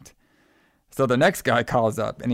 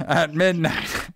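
creepy caller voice; 4 semitones higher, slower than usual. Retold or imitated. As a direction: drag the threat out like a creepy caller. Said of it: "He's like".

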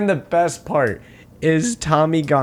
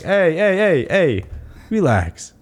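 calming; slower than usual. Retold or imitated. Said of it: "Rocky is like".

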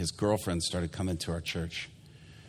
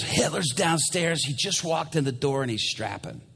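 higher-pitched mock-panicked report; urgent alarm; 6 semitones higher than usual. Worship pastor warning of an armed man, urgent alarm.

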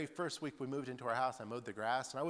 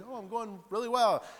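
eager neighbor; 10 semitones higher, 8 dB louder than usual. Retold or imitated. Chatty neighbor answers.

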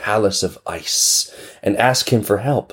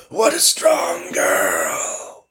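tired whirlwind; much slower than usual. Acted.

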